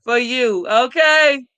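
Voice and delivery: choking up while saying it; joy pushing through tears; tearful, emotional gladness; happy tears. Real, not acted. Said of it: "start tearing up over here".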